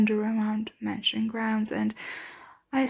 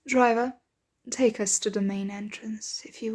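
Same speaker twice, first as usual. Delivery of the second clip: raised voice to a servant; calling out. Acted. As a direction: call up to the driver. Calling out to the carriage driver.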